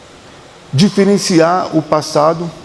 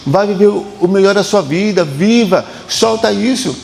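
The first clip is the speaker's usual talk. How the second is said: raised, pleading call to let go; passado gritando; 4 semitones higher than usual. Pretend. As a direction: urge them higher and slower on viver. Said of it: "Grita pra você soltar". (apelo elevado e insistente)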